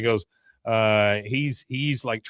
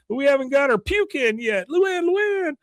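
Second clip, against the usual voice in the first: put-on high girlish calling; Luann voice. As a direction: call out high and bright.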